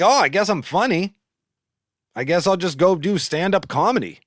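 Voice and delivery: loud, high mock realization; exaggerated mock-earnest quote; self-mocking. Mocks own reasoning as a quote.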